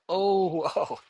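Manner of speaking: high, laughing whoa of surprise; sudden realization. Retold or imitated. Realizing overnight the problem is solved, a laughing whoa. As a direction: let it click with a laugh. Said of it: "And I'm like".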